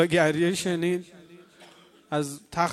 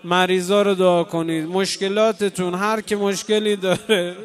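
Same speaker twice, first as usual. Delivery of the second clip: louder, impassioned prayer call; full-voiced sermon plea; fervent preaching; 4 dB louder than usual. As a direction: urge the crowd to pray through their tears. Preacher exhorts mourners to pray.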